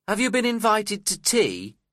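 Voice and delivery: mild cross voice, pitched high. A narrator's reading. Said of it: "she asked me crossly".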